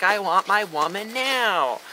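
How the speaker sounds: slow, demanding whine, mocking; spoiled brat. Mocking the Uchiha as a brat, lightly whiny. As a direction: stretch the demand like a bratty kid. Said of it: "That's what we call that".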